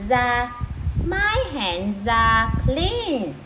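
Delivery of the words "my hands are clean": "hands are" joined, the final z carried into "are"; linked sounds. Shown as a demonstration. Teacher shows moms the linking, "hands are" run together. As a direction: slowly link "hands are" as one run. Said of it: "chỗ này người ta đọc nối".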